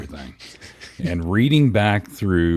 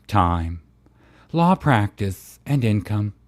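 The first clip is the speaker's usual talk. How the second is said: theatrical character reading with swooping pitch; Bubbles. Pretend. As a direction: read the legal conclusion as a campy performance. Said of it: "read this in your Bubbles voice".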